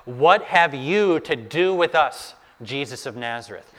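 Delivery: half yell it as an accusing challenge; mock yelling. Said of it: "He starts yelling at Jesus".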